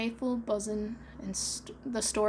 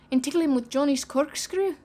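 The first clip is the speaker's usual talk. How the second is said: eager pirate; 4 semitones higher, 6 dB louder than usual. Acted. Smee eager.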